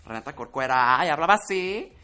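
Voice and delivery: light imitation of a fresa girl. Showing co-hosts how the character talked, mock fresa voice. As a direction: mimic a fresa girl, stretching the endings. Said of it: "Súper fresa".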